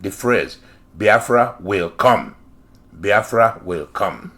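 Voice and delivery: "Biafra will come" slow and deliberate; emphasised phrase. Shown as a demonstration. Host drilling a phrase into listeners, deliberate emphasis. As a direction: spell out "Biafra will come" slowly, falling at the end. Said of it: "pick up on the word Biafra will come".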